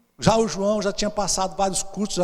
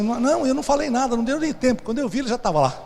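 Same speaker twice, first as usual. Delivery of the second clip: higher and faster, protesting innocence; defesa nervosa; 6 semitones higher, faster than usual. Acted. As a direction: rush the excuse, voice up. Líder se defende ao pastor. (defendendo-se nervoso, mais agudo e rápido)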